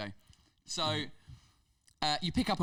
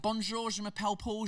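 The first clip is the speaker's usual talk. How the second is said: high, put-on English tourist French; exaggerated Brit speaking French; heavy English accent in French; 9 semitones higher than usual. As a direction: mangle the French like an English beginner. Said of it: "So I would start off being like".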